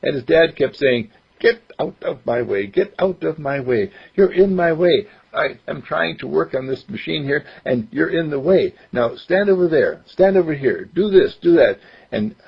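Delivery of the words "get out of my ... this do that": impatient dad. Acted. Dad scolds boy in story.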